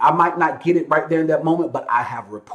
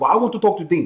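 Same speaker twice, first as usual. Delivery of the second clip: put-on French accent, higher; 3 semitones higher than usual. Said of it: "this one dude with the French accent".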